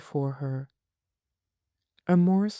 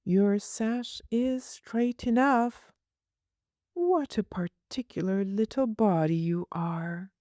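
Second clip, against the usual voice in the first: a touch of a fond, scolding nurse, a little higher; lightly voiced nurse; 6 semitones higher than usual. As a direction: play the nurse, mildly exasperated.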